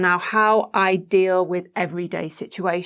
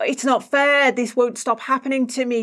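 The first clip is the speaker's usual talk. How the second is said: put-on mildly indignant child's protest, pitched up a little; angry inner child; 3 semitones higher than usual. Host voices the inner child's grievance, mildly angry. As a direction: voice a hurt child's complaint, lightly acted. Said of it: "that's what's making the child angry".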